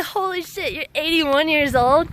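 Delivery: high-pitched amazed exclaim, rising to the end; astonished disbelief. Retold or imitated. Telling viewers about meeting an eighty-one-year-old marathon walker, pitch shooting up in astonished disbelief.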